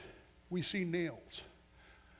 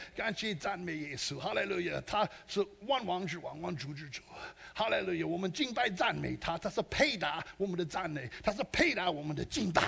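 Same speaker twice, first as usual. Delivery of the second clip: preaching in Mandarin. Shown as a demonstration. Preacher shows his Chinese sermon to the congregation, fervent praise. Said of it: "My Chinese anointing's coming on".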